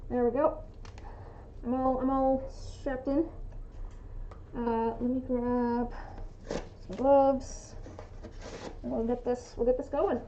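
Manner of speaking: muffled voice through a respirator mask; talking through a respirator mask. Real, not acted. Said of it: "I'm gonna be a little muffled".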